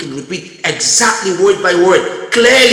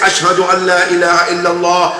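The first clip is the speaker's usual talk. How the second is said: parrot reciting; faster than usual. Retold or imitated. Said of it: "that normally says".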